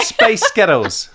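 slow Scottish lilt on space ghettos; Scottish-sounding accent. Shown as a demonstration. Explaining the joke to his wife, slow mock Scottish accent. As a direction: show how it sounds Scottish. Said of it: "it's like Scottish".

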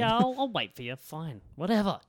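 grudging, put-upon agreement; reluctant. Real, not acted. Grudging reply to demand.

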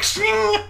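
sharp sound effect of a sword being drawn; sword-draw sound effect. Acted. Shopkeeper drawing a katana for the party, mock sword sound. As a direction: mouth a blade sliding out, Shing. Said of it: "she pulls it out and she's like".

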